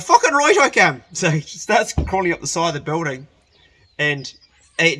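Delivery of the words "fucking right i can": put-on high, loud drunken boast; drunk mate shouting. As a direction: yell it like a cocky drunk. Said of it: "he's like".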